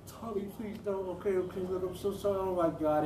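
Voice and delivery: imitating her folding. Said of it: "whenever she fucking folded".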